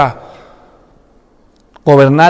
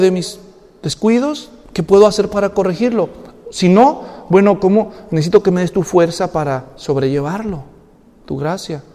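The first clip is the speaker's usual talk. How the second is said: softer, hushed prayer to the Lord; quiet prayer; 5 dB quieter than usual. Shown as a demonstration. Preacher showing the congregation how to pray, hushed prayer. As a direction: pray it softly, as if alone. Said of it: "hay que empezar a orar".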